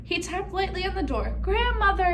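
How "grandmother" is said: wolf mimicking a little girl, high and loud. A narrator's reading. Wolf fooling grandmother at the door, little girl voice. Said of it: "in his best little girl voice".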